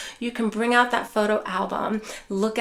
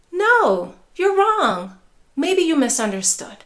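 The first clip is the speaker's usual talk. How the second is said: dismissive contradiction; 5 semitones higher, 5 dB louder than usual. Shown as a demonstration. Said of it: "instead of".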